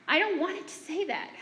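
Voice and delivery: mother mimicking her daughter's repeated complaint; upset child. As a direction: plead like a miserable kid. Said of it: "Over and over, she said".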